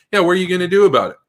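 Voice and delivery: cocky threat, rattled off fast; defiant taunt. Pretend. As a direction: sneer it at them, daring a fight. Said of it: "You just say".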